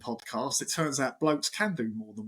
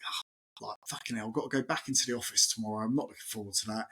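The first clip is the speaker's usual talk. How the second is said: dreading the office; 4 semitones lower, 5 dB quieter, faster than usual. Retold or imitated.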